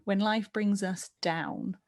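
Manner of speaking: slow, sliding down on "down"; swipe down. Shown as a demonstration. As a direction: let the voice fall on "down". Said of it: "nice swipe down on the word down".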